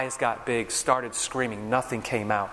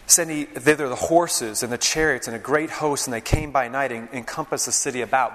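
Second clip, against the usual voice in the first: scripture reading. Acted. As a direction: proclaim the passage to the congregation. Reads scripture aloud.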